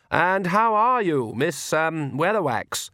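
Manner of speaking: forced cheer masking worry; cheerful. A narrator's reading. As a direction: brave cheerful bedside manner. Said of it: "in a cheerful voice".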